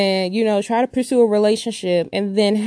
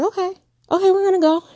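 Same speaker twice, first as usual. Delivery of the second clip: placating father; 10 semitones higher, faster than usual. Retold or imitated. Father voiced in her story.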